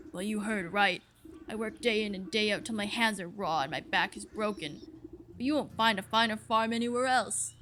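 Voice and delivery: boastful, hardworking ox character voice; proud ox farmer. Acted. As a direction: brag like a grumpy farming ox. Plays the ox farmer.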